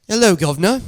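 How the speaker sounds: put-on British greeting; cheeky mock-British; British accent. Shown as a demonstration. The speaker switches from Australian to greet the host in a British accent. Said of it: "switch up to the British".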